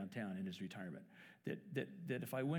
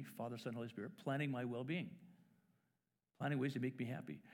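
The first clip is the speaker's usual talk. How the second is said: naive optimism. Retold or imitated. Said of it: "I thought".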